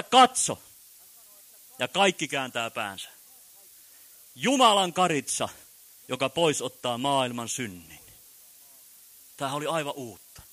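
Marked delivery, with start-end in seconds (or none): 0.0-8.0 louder, crying out to the crowd; preacher calls out John's cry to the people; loud proclamation. Acted. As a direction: call out Behold as John in the desert. John cries out behold.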